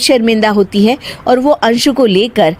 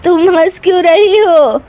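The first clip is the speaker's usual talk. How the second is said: lamenting, raised-pitch reproach; upset widow; 5 semitones higher than usual. Acted. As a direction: object in grief to being laughed at. Widow upset at laughter over her husband.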